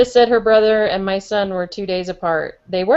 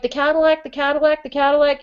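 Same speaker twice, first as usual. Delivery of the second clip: higher, insistent triple repeat; repeating insistently; 6 semitones higher than usual. Retold or imitated. Pestering the spirit with the same guess, higher and insistent. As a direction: hammer the same word over and over. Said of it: "and I was like".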